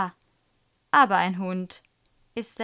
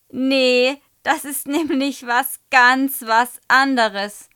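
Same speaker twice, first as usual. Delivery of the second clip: put-on loud, high, slow boyish call; 5 semitones higher, 10 dB louder, slower than usual. A narrator's reading. Amused pupil contradicts the teacher, calling out. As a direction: blurt it out high and drawn-out. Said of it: "ruft Michi".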